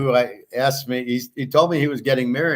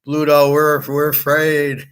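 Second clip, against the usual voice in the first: mock whiny fear; 4 semitones higher, slower than usual. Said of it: "Reminds me of Animal House".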